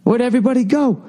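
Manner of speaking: high, frantic Muppet calling out for friends; panicked lost Muppet. Retold or imitated. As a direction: squeak it out like a scared lost puppet. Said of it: "he was running around going".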